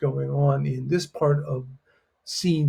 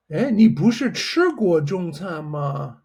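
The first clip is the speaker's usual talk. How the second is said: surprised question; 3 semitones higher than usual. Shown as a demonstration. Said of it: "we're gonna say it like this".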